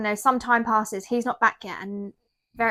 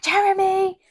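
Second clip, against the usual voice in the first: high, raised mock call; acted-out shout for a partner; retold calling out; 10 semitones higher, 5 dB louder, slower than usual. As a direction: imitate calling urgently to someone in another room. Mother calls out, baby is missing.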